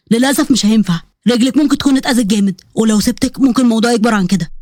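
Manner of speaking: low, controlled male voice; firm husband. Acted. Husband refusing to put injured bride down, firm.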